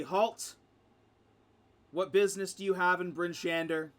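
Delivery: guard calling out a firm challenge; loud challenge. Acted. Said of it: "you hear one of them say loudly".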